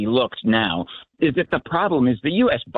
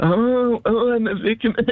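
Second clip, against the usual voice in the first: put-on sniveling woman voice, much higher; 9 semitones higher than usual. A radio caller mocks how a woman sounded, in a mock sniveling woman voice. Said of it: "she sounded like a sniveling woman".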